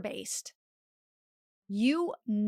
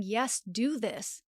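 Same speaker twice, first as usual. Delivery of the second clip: slow calm yes; much slower than usual. Acted. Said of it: "intuition saying".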